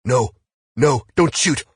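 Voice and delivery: high, loud, panicked plea; terrified cry to hold fire; screaming. A narrator's reading. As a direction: scream for your life, pitch way up. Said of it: "now screaming".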